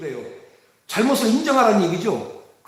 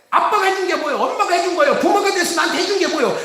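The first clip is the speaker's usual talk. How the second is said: put-on sulky child; 4 semitones higher, faster than usual. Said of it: "자녀들이 자꾸 부모들한테".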